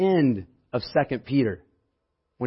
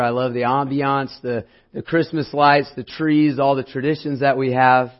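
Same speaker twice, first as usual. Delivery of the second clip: hoarse, strained voice; 4 dB louder than usual. Real, not acted. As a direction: push through a hoarse throat. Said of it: "I lost my voice".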